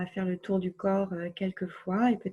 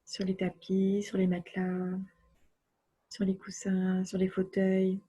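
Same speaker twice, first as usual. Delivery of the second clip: unhurried relaxation voice with long silences; guided relaxation. Acted. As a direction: guide the body to let go, phrase by phrase. (voix posée de relaxation guidée)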